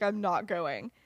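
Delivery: mildly emphatic retold refusal; loud refusal. Lily refusing her sister's wedding invitation, retold as loud. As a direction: state it firmly, only mock-loud. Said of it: "says very loudly".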